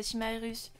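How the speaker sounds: Chimarius read tentatively, ending in French "-us" as one syllable; stumbling pronunciation. Real, not acted. Streamer greeting a viewer with a hard pseudo, stumbling pronunciation. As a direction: try "Chimarius" as si-ma-russe. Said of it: "je galère avec vos pseudos".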